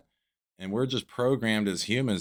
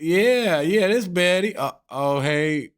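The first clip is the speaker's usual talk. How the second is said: put-on high old lady voice; 5 semitones higher, 9 dB louder than usual. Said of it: "And they're like".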